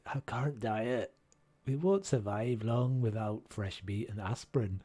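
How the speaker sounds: put-on Scottish accent. Character warning the group about scurvy, mock Scottish accent. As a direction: read it out in a rough Scottish accent. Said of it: "Tune your Scots".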